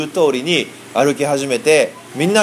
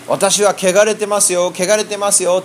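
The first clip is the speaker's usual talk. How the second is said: higher, slow mock call of a leper; 6 semitones higher than usual. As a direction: call it out slowly, half-acted, as a warning. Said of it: "おらびながら歩いて回らんと". (高く、ゆっくり、控えめに叫ぶように)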